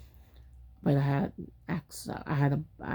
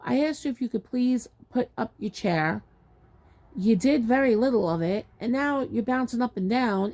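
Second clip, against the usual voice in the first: higher, insistent reproach; exasperated retold telling-off; retold firm complaint; 5 semitones higher than usual. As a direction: lay out the grievance pointedly. Retold confrontation with seat passenger.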